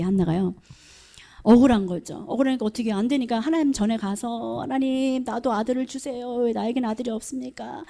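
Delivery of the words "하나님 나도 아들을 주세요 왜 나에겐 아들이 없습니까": soft, restrained imitation of a tearful plea; imitated pleading prayer. Preacher voices a childless woman begging God, softly pleading. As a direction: plead quietly, acting out a desperate prayer. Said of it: "얼마나 그 간절하게 막 울면서 기도하니까".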